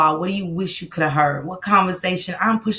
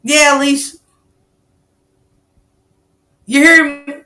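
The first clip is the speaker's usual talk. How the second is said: calling out; 7 semitones higher, 8 dB louder than usual. Real, not acted. Calling out to a viewer.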